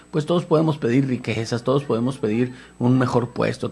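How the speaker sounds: usual speaking voice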